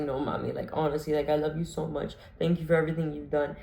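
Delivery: quiet, tender farewell to mom; hushed heartfelt thanks to mom; soft sincere plea. Retold or imitated. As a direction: soften it, as if saying goodbye for good. Tearful goodbye to mom.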